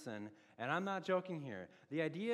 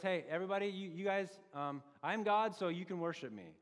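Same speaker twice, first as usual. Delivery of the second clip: mock boast. Mocking a man claiming godhood.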